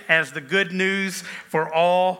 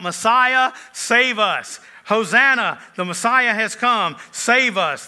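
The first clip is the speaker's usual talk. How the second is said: higher and louder pleading cries; crowd shouting; 5 semitones higher, 4 dB louder, slower than usual. Retold or imitated. Pastor voicing the crowd greeting Jesus, mild mock shout. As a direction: cry out like a hopeful crowd. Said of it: "the crowds are shouting out".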